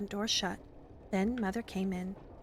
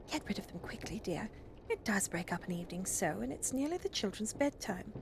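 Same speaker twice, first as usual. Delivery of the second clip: softer, lightly put-out mother; mildly weary mother; 5 dB quieter than usual. Acted. Mother asks her husband to send visitors away, softly weary. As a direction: keep it soft, a gentle complaint.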